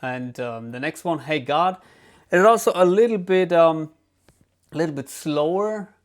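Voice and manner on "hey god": ordinary talk, nothing marked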